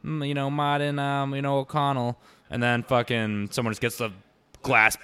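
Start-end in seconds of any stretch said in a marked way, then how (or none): 0.1-2.2 high, loud, put-on mobster voice; breezy tough guy, lightly hammed; cool Irish mobster talk. Irish mobster chatting casually at the bar, high mock cool. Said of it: "they'll be talking all cool".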